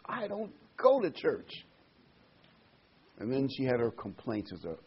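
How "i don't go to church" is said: proud. Retold or imitated. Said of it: "she was proud to say this".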